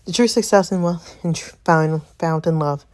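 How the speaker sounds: slightly breathless reading; winded, stumbling through the words; out of breath. Real, not acted. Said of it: "Sorry, y'all, I'm out of breath".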